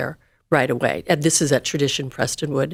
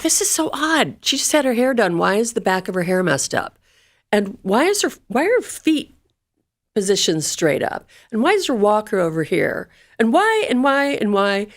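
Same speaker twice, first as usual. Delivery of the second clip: higher-pitched, puzzled questions piling up; baffled questioning; 5 semitones higher than usual. Retold or imitated. Daughter recounting her doubts about her mother's death scene, baffled. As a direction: retell mounting disbelief, pitched up.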